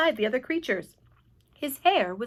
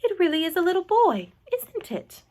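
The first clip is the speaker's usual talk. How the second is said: astonished cry; 8 semitones higher, 4 dB louder than usual. A narrator's reading. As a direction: marvel aloud, then drop to a hushed question. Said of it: "cried the head of the fire department".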